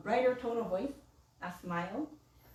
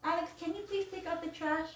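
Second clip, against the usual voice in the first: polite request; 6 semitones higher, 4 dB quieter than usual. Shown as a demonstration. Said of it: "Instead of saying".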